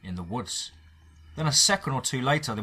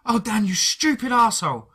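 high, loud teary scold with a forced smile; tearful scolding; 11 semitones higher, 7 dB louder than usual. Acted. Faye crying over Dan, high loud teary scolding. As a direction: scold him through tears, almost laughing. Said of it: "trying to crack a smile".

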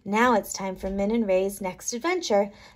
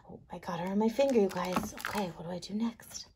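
quiet aside; 3 semitones lower, 9 dB quieter, faster than usual. Real, not acted. Aside to the children.

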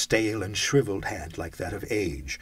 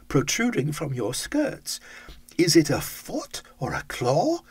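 put-on old Scrooge voice; 6 semitones higher than usual. Scrooge asks the ghost about its short life, higher old voice. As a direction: ask it like an aged, anxious miser.

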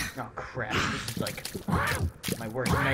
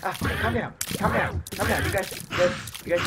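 higher, urgent calm down; frantic pleading; 7 semitones higher, 4 dB louder than usual. Real, not acted.

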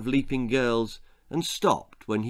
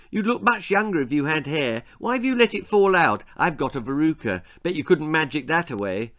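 put-on quick, pushy boyish chatter; chattering boy Jack; 2 semitones higher, 3 dB louder, faster than usual. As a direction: rattle on like a tactless child.

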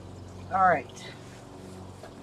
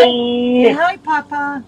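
loud coaxing; 3 semitones higher, 11 dB louder, slower than usual. Real, not acted. Mother coaxing toddler on video call.

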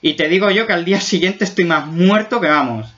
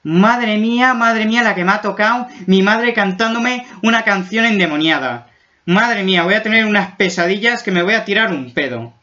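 put-on scared kid voice; 4 semitones higher than usual. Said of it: "también está diciendo".

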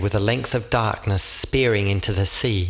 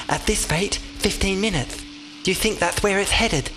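higher-pitched voice for the derby; a lighter, higher companion voice; derby character voice; 9 semitones higher than usual. A narrator's reading. The derby answers Oscar in a higher voice.

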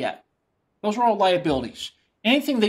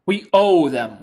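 New York accent on "We owe them"; 4 semitones lower than usual. Real, not acted. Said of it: "my New York accent gets a little thick".

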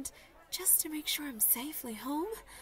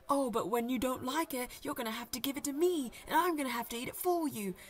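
mocking the ex; 4 dB louder than usual. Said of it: "he's gonna go".

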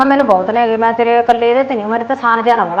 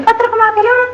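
mocking sneer; 12 semitones higher than usual. Wife mocking husband's earning.

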